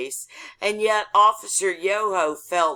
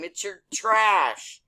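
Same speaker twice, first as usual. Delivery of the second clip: mock scream, slow and drawn out on trash; retold scream; 4 semitones higher, slower than usual. Driver screaming back at the cop, retold yell. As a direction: holler it back, stretching the last word. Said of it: "I screamed back at him".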